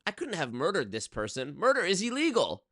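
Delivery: high, far-off fake innocence; innocent murderer. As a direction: play dumb over the body. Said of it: "I go".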